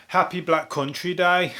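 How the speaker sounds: slow, drawn-out Black Country accent. Shown as a demonstration. Greeting listeners as a local would, in a Black Country accent. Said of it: "how you say it if you're from the Black Country".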